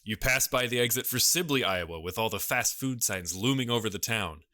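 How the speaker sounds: measured, mock-ominous scene setting; suspenseful story narration. Podcaster painting a rainy road-trip picture for colleagues, mock-suspense narration. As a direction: narrate a spooky tale in deliberate phrases with pauses.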